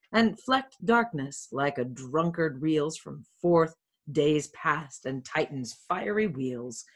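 measured Shakespearean read-aloud; verse reading. Acted. Friar Lawrence talking to himself at dawn, measured verse reading. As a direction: read the rhymed verse with deliberate phrasing.

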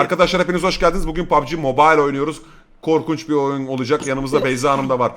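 quick, upbeat streamer greeting; mock video intro. Gamer greets imaginary viewers as recording starts, mock video intro. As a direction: open a gaming video for the viewers.

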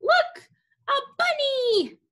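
high, slow excited cry; excited Rex. Acted. Rex the dog spotting a bunny, excitedly. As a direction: spot the bunny and point, thrilled. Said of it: "what's Rex saying?".

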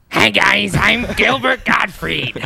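high, loud, slow squawking voice; a deliberately butchered celebrity voice; Gilbert Gottfried impression. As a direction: screech it out like the cartoon parrot. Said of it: "I'm gonna butcher the impression".

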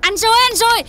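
high, loud pleading call; pleading cry. Acted. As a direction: cry out his name, begging. Woman begs angry in-law.

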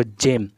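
"जिम" opening on a j sound; soft G word. Shown as a demonstration. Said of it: "जी का उच्चारण जा हो रहा है".

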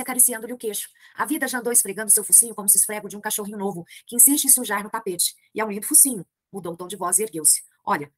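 reading a novel aloud to the class; measured literary narration; story reading. A narrator's reading. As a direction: read it like a storyteller. Teacher reads the novel aloud.

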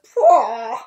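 loud spluttering pwah; disgusted pwah. Acted. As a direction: spit it out in disgust. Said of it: "The hedgehog says".

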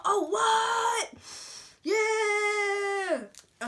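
high, loud fake astonishment; mock surprise. Surprising viewers with a reusable straw, hammed-up shock. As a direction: act amazed at your own gag.

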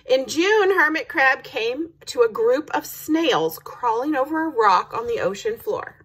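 lively storybook narration; story read-aloud. A narrator's reading. Reading children a month-by-month sea story, lively narration. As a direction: open loud and high, then settle into the tale.

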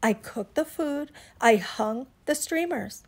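emphatic telling-off, hitting each "I"; cross, self-righteous lecture; indignant scolding. Acted. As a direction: list your work with mounting indignation, loud at the end. Iguana scolds friends in angry circles.

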